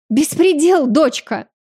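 high, loud roar of indignation; roaring outrage. A narrator's reading. Lady Mansera roars to her daughter, outraged. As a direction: bellow it red-faced. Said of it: "взревела покрасневшая ещё сильнее леди Мансера".

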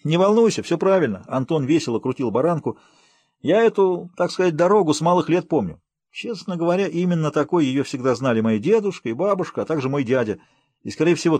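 breezy reassurance from a man at the wheel; lightly voiced cheerful driver. Anton reassures his friend about the road, lightly cheerful.

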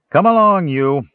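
high, loud, rough command; snarled order. A narrator's reading. Guard jerking Tass backward, snarling. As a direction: snarl at a prisoner to move. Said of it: "the guard snarled".

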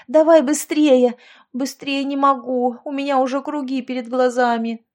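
swimming while talking. A narrator's reading. Shouting while swimming, exhausted.

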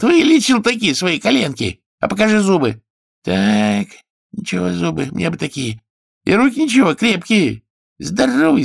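high, loud capricious king; whiny king. Acted. King inspecting the healer's knees and teeth, high and loud. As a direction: play a petty tyrant poking at his healer.

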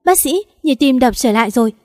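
a nurse's loud alert; nurse calling out. Acted. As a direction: sing out the good news urgently. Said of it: "Y tá hô lên".

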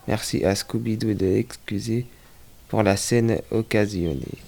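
lightly mock station announcer; train station announcement. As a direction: read it like a station PA call. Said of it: "Annonce de gare".

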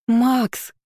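high call across a hall. A narrator's reading. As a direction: shout a name from afar. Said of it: "разлетелся по холлу".

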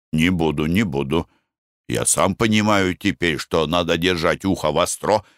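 sheepish husband. Acted. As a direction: mumble an excuse. Husband promising.

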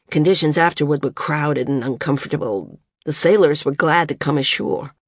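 lightly voiced guarded young stranger, measured; a hint of a closed, careful young man recounting; reserved young man. Young stranger reports the voyage to Maris, lightly voiced and guarded.

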